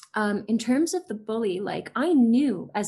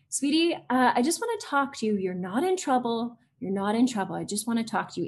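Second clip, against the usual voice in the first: put-on soothing, neutral teacher voice that eases a child in; loving tone. Shown as a demonstration. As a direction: gently reassure a child who thinks they're in trouble. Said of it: "So I say it in a very neutral tone, very loving tone".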